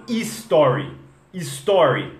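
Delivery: slow "story" said as "ee-story"; mistaken Brazilian pronunciation. Shown as a demonstration. Teacher showing a learners' error, "story" with I in front. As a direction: put an extra I before the S in "story". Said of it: "colocam I na frente do S".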